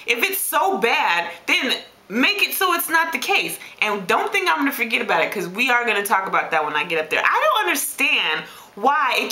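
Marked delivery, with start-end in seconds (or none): 0.0-3.6 going off on God. Retold or imitated. Dieter arguing with God over tasty food, indignant retelling. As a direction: plead your case in mild exasperation. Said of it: "go off on God".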